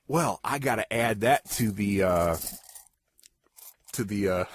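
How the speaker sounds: soft unvoiced whisper aside. Real, not acted. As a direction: whisper it to yourself. Aside while noting trivia.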